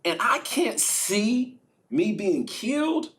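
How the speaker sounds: Jesus half-laughing at his death; laughing disbelief. Retold or imitated. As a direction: chuckle at the absurd fate. Jesus voiced, laughing despair.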